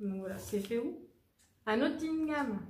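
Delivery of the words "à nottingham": higher-pitched attempt at an English accent; French speaker's botched English accent; bad English accent. Shown as a demonstration. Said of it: "mon accent anglais, il est dégueu".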